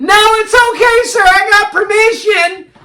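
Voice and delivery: sing-song Christina. Retold or imitated. Christina sweetly insisting to the angry man. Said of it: "She's like".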